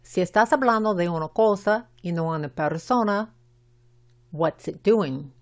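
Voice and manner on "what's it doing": "it" with a short i and its final t left unpronounced; short i, silent t. Shown as a demonstration. Teacher models a question for Spanish speakers, short i and unreleased t in "it". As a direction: say "it" with a short i, dropping the t. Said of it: "la I es corta y la T de it no".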